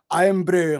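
Irn-Bru with a light Scottish lilt. Shown as a demonstration. Showing how the word comes out, light Scottish accent. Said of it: "trying to sound Scottish".

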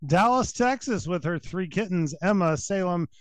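bright host introducing a contestant; game show host voice. Pretend. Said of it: "I've been working on my game show host voice".

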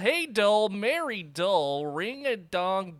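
high, loud, stretched-out announcer call; slow, lilting hype-up; showman introduction. Pretend. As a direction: introduce the co-host in a playful sing-song. Hammed-up host introduction.

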